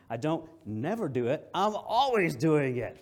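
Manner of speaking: amused mock quote. Preacher to congregation, laughing mock quote. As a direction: play up the silly double negative. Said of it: "It means I always do it".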